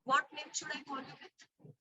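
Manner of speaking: very faint, far from the mic; words almost lost, very soft; barely audible. Real, not acted. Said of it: "but your voice is very low".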